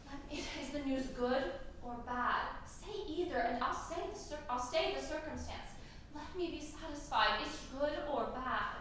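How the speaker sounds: soft, hushed begging; pleading softly. Acted. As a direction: coax the news out of her quietly. Juliet begs for the news.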